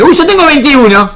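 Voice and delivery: a twin amazed at his age; playful astonished twin; mock surprise.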